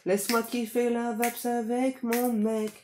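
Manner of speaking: a hint of a wheedling lover; coaxing ex. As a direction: sweet-talk them lightly. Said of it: "qui va vous enjôler". (petite imitation enjôleuse)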